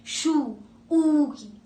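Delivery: "शू" sounded with the ऊ ending drawn out; drawn-out vowel ending. Shown as a demonstration. Teacher showing which vowel the name ends on. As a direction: hold the ऊ in "शू". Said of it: "आवाज किसकी आ रही है".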